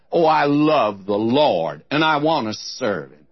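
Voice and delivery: a mild, mocking imitation of pious talk; mocking pious quote. Preacher mocking churchgoers' platitudes, mildly scornful imitation. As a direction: lightly parrot the empty pious phrase. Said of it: "I get so tired of hearing them".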